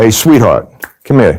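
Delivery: sharp, snapping, curt tone. Retelling snapping at a waitress to call her over: retelling snapping at someone. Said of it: "I snap at her and I go".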